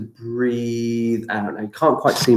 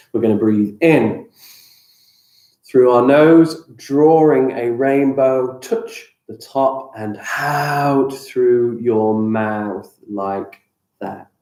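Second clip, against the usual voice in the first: guided breathing; slower than usual. Acted. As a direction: guide the breath calmly, stretching words. Leads rainbow breathing.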